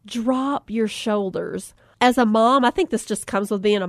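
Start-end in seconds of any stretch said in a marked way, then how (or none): 0.1-1.7 slow, soft meditation-teacher voice; zen instructor. Retold or imitated. Instructor addressing her only student, slow soft zen voice. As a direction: float it out like a calm yoga guide. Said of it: "she's kinda got her zen on".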